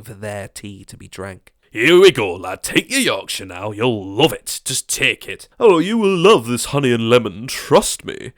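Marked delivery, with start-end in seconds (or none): 1.7-8.3 a hint of a creepy coaxer. Crowd forcing tea on him.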